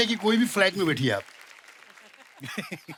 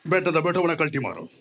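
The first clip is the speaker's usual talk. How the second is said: snooty air hostess; 3 semitones lower than usual. Retold or imitated. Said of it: "air hostess भी attitude में".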